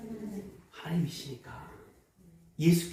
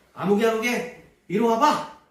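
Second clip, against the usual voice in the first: loud call across the room to his son; a father's raised call to come here; 4 semitones higher, 5 dB louder than usual. Retold or imitated. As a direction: summon him sharply by name. Father calls son in retold scene.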